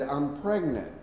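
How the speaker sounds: a wife gently slowing down her news; slowed down. Retold or imitated. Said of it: "the third time she slows it down for me a little bit".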